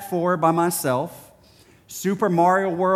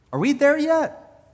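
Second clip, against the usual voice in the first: put-on childlike plea to God; 11 semitones higher than usual. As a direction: ask God like a bored kid in the car.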